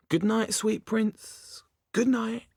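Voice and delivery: high, very slow, hammed-up Shakespearean; milk the exit like a tragedian; theatrical farewell.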